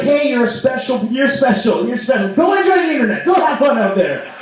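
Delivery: high, sugary mock-parent voice; coddling parent. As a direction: gush over a child, lifting into a cheery send-off.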